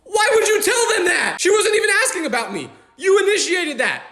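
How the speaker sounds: half-laughing disbelief, voice shooting up; exasperated outburst. Real, not acted. Exasperated rant at mom.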